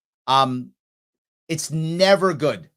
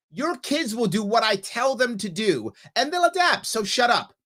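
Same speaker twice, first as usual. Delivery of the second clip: mock governor; 5 semitones higher than usual.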